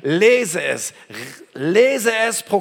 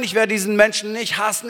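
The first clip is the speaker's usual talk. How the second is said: normal talking voice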